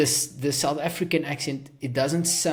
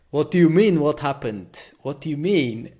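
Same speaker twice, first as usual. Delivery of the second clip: raised, louder burst of mock disbelief; indignant retort; 3 semitones higher, 5 dB louder than usual. Speaker retelling his reply to his sister, indignant retort. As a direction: throw the question back, put out.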